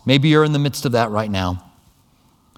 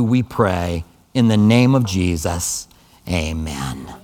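public prayer. Real, not acted. Pastor asks God for peace for the congregation, earnest public prayer. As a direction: lead the room in prayer with measured pauses.

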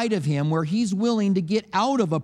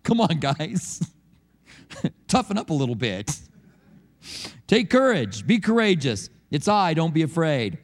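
casual Jesus; 3 semitones lower than usual. Retold or imitated. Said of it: "Jesus is like".

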